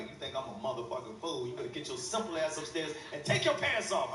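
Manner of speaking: low, menacing mother; a lightly done threatening mother; stern mom. Retold or imitated.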